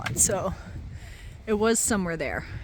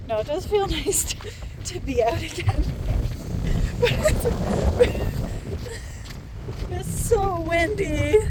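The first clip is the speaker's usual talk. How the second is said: talking through laughter, pitched up; laughing; 7 semitones higher, slower than usual. Real, not acted. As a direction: laugh helplessly through the words. Laughing at the cold wind.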